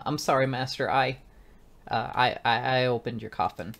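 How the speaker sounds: hesitant, stammered confession; lightly acted, halting girl's apology; timid, regaining composure. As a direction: stumble over the start of a nervous apology. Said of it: "she does kind of regain herself a little bit".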